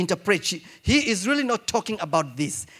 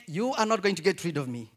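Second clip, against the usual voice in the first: impassioned plea; 6 semitones higher than usual. Retold or imitated. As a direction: plead with rising fervor. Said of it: "It's like".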